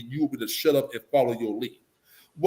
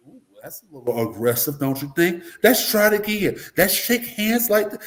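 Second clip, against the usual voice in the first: prim, higher, louder correction with a laugh; prissy correction; 4 semitones higher, 3 dB louder than usual. Retold or imitated. The preppy visitor corrects a man's greeting prissily. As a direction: primly correct the handshake, half laughing. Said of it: "They say".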